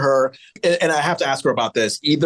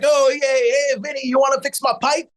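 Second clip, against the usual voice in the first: higher-pitched New York street-guy voice; hammed-up New York tradesman accent; 9 semitones higher than usual. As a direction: put on a New Yorker calling to a buddy. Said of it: "Like the New Yorkers on the street".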